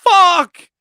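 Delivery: high, loud squawk for the snake; voicing the snake. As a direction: give the snake a shrill cursing voice. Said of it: "it opens its mouth and it's like".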